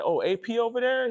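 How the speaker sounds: high, lightly voiced friend calling out; friend's greeting. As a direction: mimic the friend's high cheerful hail. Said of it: "he was like".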